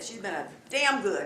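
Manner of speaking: "damn good" pressed hard, each word leaned on; emphasis on damn good. Real, not acted. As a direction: lean into "damn good" to make it count. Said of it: "I emphasize the word damn good".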